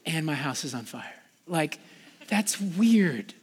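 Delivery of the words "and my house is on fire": mock phony prayer.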